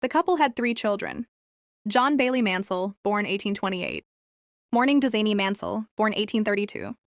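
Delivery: flat, even monotone reading. Real, not acted. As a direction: read it in a monotone. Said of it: "My apologies for the monotone voice".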